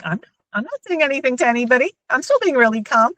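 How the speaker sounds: fast, tight insistence on being calm; rushed inner voice. Retold or imitated. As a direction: rush the words while claiming calm. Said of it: "I'm like".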